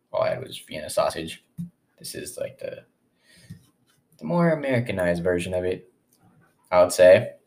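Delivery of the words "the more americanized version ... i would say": talking while chewing; mouth full. Real, not acted. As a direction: speak through a mouthful of food. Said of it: "don't mind if I'm just chewing".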